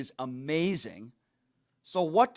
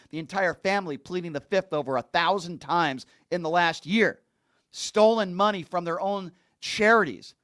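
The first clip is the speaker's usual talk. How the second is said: building angry rant; 5 dB louder than usual. Real, not acted.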